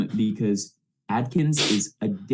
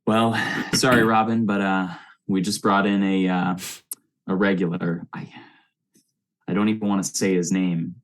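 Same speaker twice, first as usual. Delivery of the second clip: understated suave delivery, opening on a sigh; a touch of suave reluctance; super suave; 2 semitones lower than usual. Acted. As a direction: lightly play the smooth charmer, with hesitations. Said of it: "in his super suave voice".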